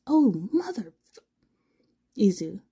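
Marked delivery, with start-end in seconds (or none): 0.1-1.2 slow, unvoiced, cut-off cuss; slow whispered swear; whispered curse. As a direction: hiss the curse under breath.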